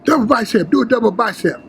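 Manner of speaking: high, commanding call; calling out poses. Retold or imitated. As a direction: bark the pose name out.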